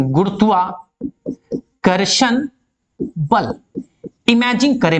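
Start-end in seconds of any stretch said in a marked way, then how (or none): 0.1-3.5 teacher stretching गुरुत्वाकर्षण very slowly so the class can follow; drawn out for emphasis. Shown as a demonstration. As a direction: spell out गुरुत्वाकर्षण slowly so students catch it. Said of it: "गुरुत्वाकर्षण (slow repeat)".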